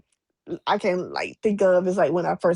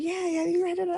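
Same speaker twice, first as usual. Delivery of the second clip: imitating fan; 12 semitones higher, 5 dB quieter than usual. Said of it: "She's like".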